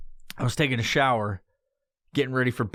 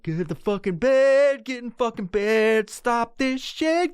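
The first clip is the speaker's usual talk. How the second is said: urging himself; 7 semitones higher than usual. Retold or imitated. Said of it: "I was just like".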